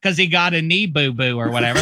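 high, hammed-up Pittsburgh-style Chicago fan; Pittsburgh accent. Bears fan scoffing at Caleb, mock Pittsburgh accent. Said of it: "Pittsburgh doing a Chicago guy".

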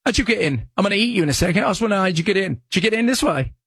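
nosy talking cat in mock-British voice; British accent. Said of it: "What's going British accent, Nanny?".

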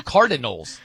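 "Cardinals" with every syllable sounded out; crisp, full "Cardinals"; mock careful "Cardinals"; over-enunciated. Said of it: "totally enunciates".

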